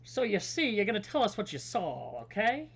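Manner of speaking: 1940s noir detective grilling a witness; lightly voiced hard-boiled gumshoe. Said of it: "nineteen forties, like, noir detective voice".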